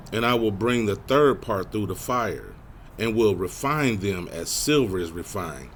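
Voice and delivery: slow, measured verse reading; scripture reading. Real, not acted. Preacher reading about refining by fire, slow and measured. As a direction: read the verse out deliberately. Reads scripture aloud to congregation.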